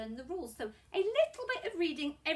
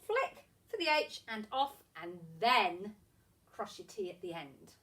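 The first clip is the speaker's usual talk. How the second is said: rhythmic teacher patter with stretched key words; handwriting patter; 3 dB louder than usual. Shown as a demonstration. Teacher guides young pupils through letter strokes, rhythmic handwriting patter. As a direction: talk a pencil through each stroke. Chants letter formation while demonstrating.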